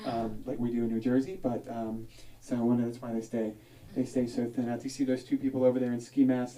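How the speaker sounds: lightly voiced quiet tour-guide patter; a hint of a hushed nature-documentary guide; zoo tour guide. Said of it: "a guy comes and shows you all the animals".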